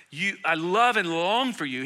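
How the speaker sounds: slow, tender reading of "love and long"; tender Paul. Retold or imitated. Pastor voicing Paul's longing for his church, slow and tender. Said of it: "He sounds more like the, the beloved Apostle John, who's so tender, so kind".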